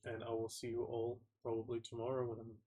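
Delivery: stuffy, congested nasal voice. Real, not acted. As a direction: nasally voice from a head cold. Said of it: "my nasally voice".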